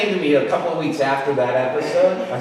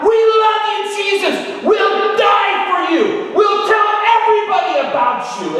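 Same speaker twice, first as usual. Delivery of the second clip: high, loud worship shouts; ecstatic screaming; 4 dB louder than usual. Retold or imitated. Young worshippers dancing down the aisle, ecstatic high shouting. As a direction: scream your love for Jesus as you dance past. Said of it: "they're screaming out".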